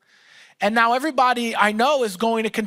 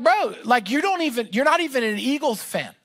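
raised, higher indignant complaint at the friend; mock angry rant; 3 semitones higher than usual. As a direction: lay into him like you're owed a ticket. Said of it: "I'm starting to get angry".

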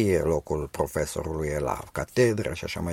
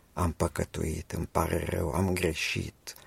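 humble confession; 4 dB quieter than usual. Retold or imitated. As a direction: confess quietly, head bowed, drawing it out. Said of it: "când s-a gândit să se întoarcă".

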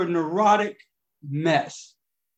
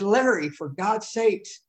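exasperated mother; 3 semitones higher, slower than usual. Retold or imitated.

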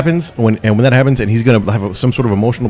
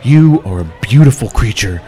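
put-on poetic drunk pep talk. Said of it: "It's fucking poetic".

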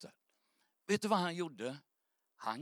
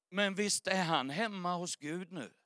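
ordinary delivery

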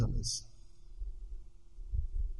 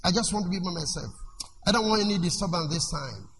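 imitating a withdrawn, softer sister pushing people away; 2 semitones lower, 5 dB quieter than usual. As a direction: quietly wave everyone off. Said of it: "they call you sister and say".

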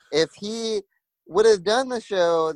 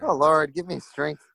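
praying for patience through teeth; 4 semitones lower than usual. Acted. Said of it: "you pleading to God".

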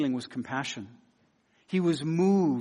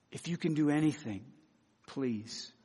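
begging; 3 semitones lower, 9 dB quieter than usual. Acted. Leper pleading with Jesus for healing, begging. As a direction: beg softly, dropping low on the last word. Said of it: "The leper comes to him begging him".

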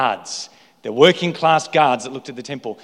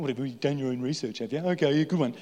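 sarcastic sneer; 7 dB quieter, faster than usual. Acted. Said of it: "The disdain there is quite palpable in their voice".

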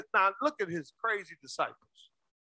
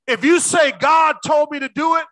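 louder, insistent sermon exhortation; impassioned preaching; 4 semitones higher, 5 dB louder than usual. Real, not acted. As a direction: urge them to step out boldly. Preaches at raised force.

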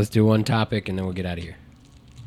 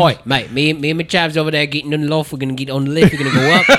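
loose-jawed, quick Brummy gabble; Brummy accent; 3 semitones higher, faster than usual. Acted. Guest imitating a Birmingham chav, loose-jawed Brummy accent. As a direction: let the syllables slide in a loose Brummy accent. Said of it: "with a lo-, like, a loose jaw".

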